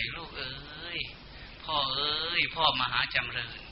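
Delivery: soft, gentle consoling voice of Yama; comforting. Retold or imitated. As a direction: hush a weeping soul kindly. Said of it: "พญายมนั้นก็จะปลอบใจ". (น้ำเสียงปลอบโยนอ่อนโยน)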